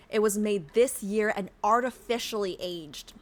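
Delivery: measured read-aloud voice; lightly performed game narration; story narration. A narrator's reading.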